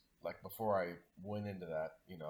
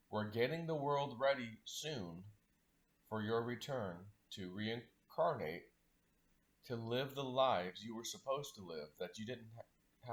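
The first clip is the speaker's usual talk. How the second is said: put-on slow, steady and gentle, reassuring the children; slow reassuring promise; slower than usual. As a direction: talk slowly, as if soothing lost souls. Comforting message to the lost souls.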